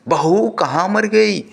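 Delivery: put-on high scolding call from the old woman; mother-in-law calling out. Mother-in-law yells across the house for her bahu, scolding. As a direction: shout for the daughter-in-law, annoyed.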